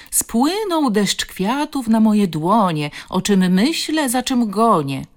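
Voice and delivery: slow, high, drawn-out verse; mocking read-aloud. A narrator's reading. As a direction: read the poem out loud in a stretched singsong. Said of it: "zaczął czytać na głos".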